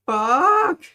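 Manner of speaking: loud, high panicked curse; screaming curse as the bed sinks; panicked shout. Acted. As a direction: yell it in sheer panic.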